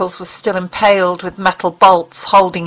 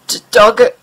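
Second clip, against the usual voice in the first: sadly; 2 semitones higher, 4 dB louder than usual. A narrator's reading. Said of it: "he asked sadly".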